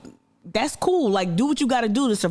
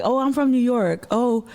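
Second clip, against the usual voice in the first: higher-pitched mock bragging; mocking boaster; 4 semitones higher than usual. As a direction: put on a showy boast, mimicking hometown posers. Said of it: "people who like".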